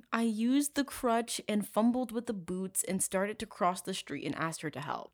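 mock English affectation; lightly put-on British voice; fake British accent. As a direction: imitate him in a phony British accent. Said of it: "speak in a fucking fake British accent".

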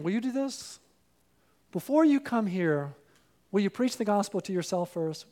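ordinary delivery

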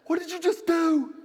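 put-on high, loud horrified kid voice; shocked kids. Kids shocked as dad trashes the candy, high horrified cry. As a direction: cry it out like a stunned child. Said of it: "all the kids go".

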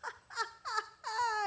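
high-pitched mimicked belly laugh; imitated laughter. Imitating the Home Depot man bursting out laughing, high laugh. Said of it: "he starts laughing".

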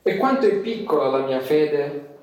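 measured, earnest prayer with long pauses; solemn prayer. Acted. Luther alone in his cell praying to God, solemn prayer. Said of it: "e lui pregò così".

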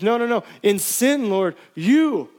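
a lightly voiced David pleading with God. Pastor voicing David confessing to God, urgently pleading. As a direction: beg as the guilty king. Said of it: "He says".

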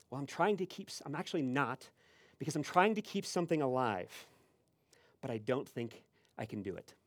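softly voiced, mildly defeated priest; meek Adam. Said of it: "meek and".

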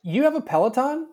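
wait, you have one?; surprised. Real, not acted. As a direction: pitch jumps up in disbelief. Surprised question.

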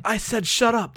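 lightly acted exasperation; mild retold outburst. Co-host acting Claudio snapping at an apparition, mildly irritated. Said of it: "He's like".

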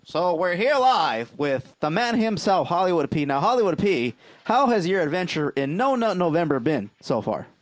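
hyped ringside interviewer voice; wrestling promo. Acted. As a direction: pump it up like a wrestling announcer. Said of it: "Let's do it like a, a, a wrestling promo".

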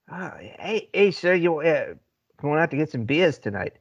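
"beers" as "bee-uhz", Boston style; lightly Boston "beers", the R left out; dropped R's. Acted. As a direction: ask casually for "beers" with no R. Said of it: "I was dropping a lot of R's".

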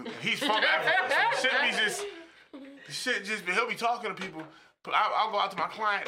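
laughing through the story. Real, not acted. Laughing while telling the story.

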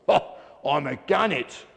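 proud declaration with a touch of a shout; shouted boast. A narrator's reading. Gannet answering the other birds, mildly shouted. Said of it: "Grabby shouted".

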